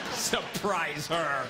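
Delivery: slow, scornful drawl; slow sarcastic echo; mocking. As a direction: sneer at the idea. Mocking the amateur idea.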